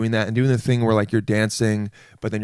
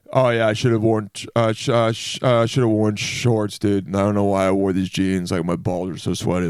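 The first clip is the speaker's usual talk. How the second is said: lightly voiced dudebro; 2 semitones lower than usual. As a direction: play a mild guy voice griping about sweaty jeans. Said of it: "a guy voice could be".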